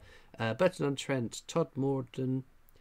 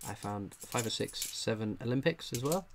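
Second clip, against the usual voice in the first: usual speaking voice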